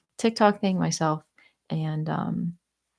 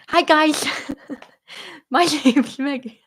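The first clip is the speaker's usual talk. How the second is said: high, loud slushy lisp; Sid the Sloth lisp; 8 semitones higher, 4 dB louder than usual. Acted. Showing viewers the silly voice she did with a friend, high playful lisp. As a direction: put on a cartoon lisp, pitched way up. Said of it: "talking with a lisp".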